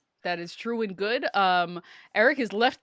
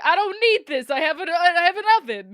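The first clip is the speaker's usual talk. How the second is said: high, louder woman's voice; quoted woman; 8 semitones higher, 6 dB louder than usual. Retold or imitated. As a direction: squeak it out, indignant. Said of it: "the woman's like".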